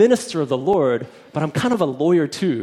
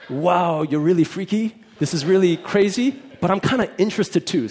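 imitated amazement, higher pitch with rising ends; weirded-out but intrigued; 4 semitones higher than usual. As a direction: voice his startled, half-curious reaction. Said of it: "he was kinda like".

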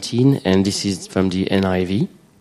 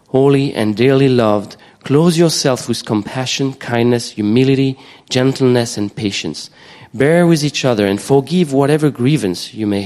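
scripture reading. Acted. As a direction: proclaim each line to the congregation. Reads Colossians three aloud.

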